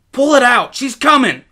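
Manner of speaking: put-on high, loud, urgent boy's cry; panicked shout. A narrator's reading. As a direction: yell it with a bear coming. Boy urges brother, bear coming.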